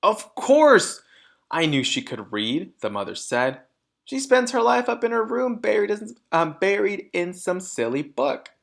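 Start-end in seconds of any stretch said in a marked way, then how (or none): 0.0-2.7 high, loud, dismissive voice; high shrill-sounding mom; snooty mother. A narrator's reading. Mrs Wormwood voiced. 4.0-8.5 high, loud scornful mother voice; snooty mother. A narrator's reading. Mrs Wormwood voiced.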